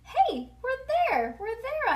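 high, loud, stretched cheer; thrilled holler. A narrator's reading. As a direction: holler it like an overjoyed kid. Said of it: "I hollered, very thrilled".

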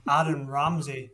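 slowed down, letting the name land; slow emphatic repeat. Real, not acted. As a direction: repeat the name slowly for effect. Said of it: "strap yourselves in".

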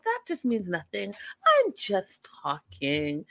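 lightly voiced airy don't-care tone, fast; mock breezy nonchalance. Mimicking Ella's fake nonchalance to Johnny, airy. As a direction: rattle it off like nothing matters.

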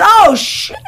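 comic high-pitched oath of dread; mock panic, drawn out; retold dismay. Auditioner learning she must know it, dismayed.

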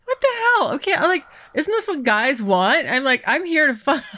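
high, incredulous retelling; shocked high-pitched mock outrage; mock shocked squeal. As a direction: squeak it out in disbelief.

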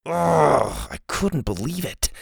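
ordinary delivery, nothing marked

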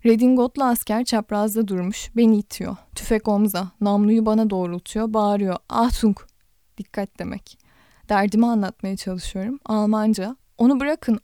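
steady literary read-aloud, voicing the dialogue lightly; calm audiobook narrator; story narration. A narrator's reading. Reads a novel aloud.

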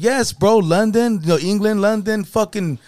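hammed-up old man mocking England; mock British old man. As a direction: rant about London in a put-on geezer voice. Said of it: "He's like".

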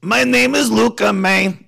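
half-sing it in a Latino drawl; Latino accent. Shown as a demonstration. A song sung in a Latino accent, slow. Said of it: "I did it in a Latino".

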